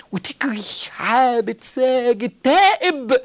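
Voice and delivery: breathy slow whisper; whispered urging. Real, not acted. Preacher whispering his plea to the listener, slow and hushed. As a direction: hush it out slowly, reverent.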